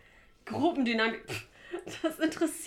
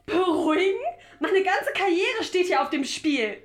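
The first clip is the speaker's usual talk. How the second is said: bitter laughing outburst; 7 semitones higher, 6 dB louder than usual. Acted. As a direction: laugh in disbelief, then lay each word down hard. Furious reply to calm down. (höhnisch lachend, dann wütend langsam)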